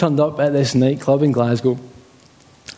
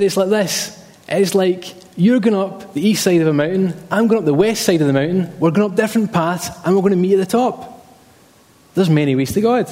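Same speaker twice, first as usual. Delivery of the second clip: higher-pitched imitated Glaswegian dad; Glaswegian accent; 4 semitones higher than usual. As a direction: explain it like an insistent Glaswegian dad. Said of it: "In his best kind of Glaswegian accent".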